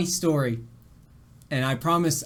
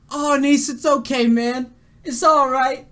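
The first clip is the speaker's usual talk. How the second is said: higher, sympathetic imitation of comforting viewers; mock-console in a raised voice; fake consoling friend; 8 semitones higher, 5 dB louder than usual. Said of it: "you guys all just like".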